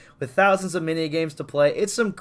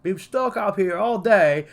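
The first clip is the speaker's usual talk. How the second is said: drone voice; 5 semitones higher, 4 dB louder, slower than usual. Retold or imitated. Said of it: "the drone is like".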